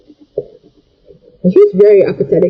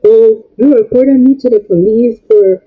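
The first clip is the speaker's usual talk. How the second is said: indignant grandmother; 3 semitones higher than usual. Retold or imitated. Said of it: "so the grandmother was like".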